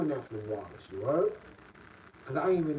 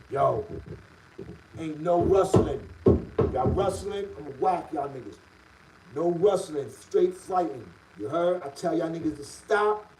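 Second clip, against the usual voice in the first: mock guard's yell. Retold guard calling out orders.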